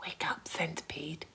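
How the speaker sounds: unvoiced, gentle whisper. A narrator's reading. James waking the sleeping centipede, whispering. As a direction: wake him softly without a voice. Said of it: "whispered James".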